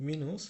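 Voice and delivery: teacher models মিনুস the German way, not মাইনাস; German minus pronunciation. Shown as a demonstration. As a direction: say মিনুস with a clear German ü sound, mi-nus, not my-nus. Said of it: "ইউ এর উচ্চারণ বা উ এর উচ্চারণ জার্মানিতে সবসময় উই হবে".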